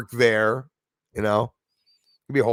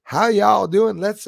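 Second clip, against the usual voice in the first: higher, louder mock Southern greeting; imitated Southern drawl accent; 10 semitones higher, 6 dB louder, much slower than usual. Host imitating dancing Gina greeting viewers, Southern accent. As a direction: put on a perky y'all accent. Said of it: "nice accent".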